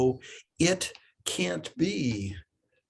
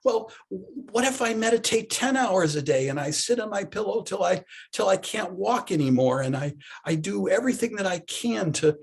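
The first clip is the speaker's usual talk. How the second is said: challenged student; 4 semitones higher than usual. Acted. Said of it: "feeling a little bit challenged".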